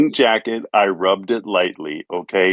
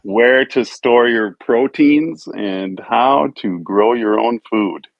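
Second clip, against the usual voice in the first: happy. Real, not acted. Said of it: "why F O D sounds so fucking happy right now".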